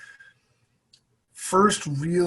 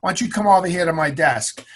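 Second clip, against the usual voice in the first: put-on a light nasal Boston old doctor, a touch higher; lightly voiced nasal Boston physician; nasally Boston accent; 4 semitones higher, 7 dB louder than usual. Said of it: "a nasally Boston accent".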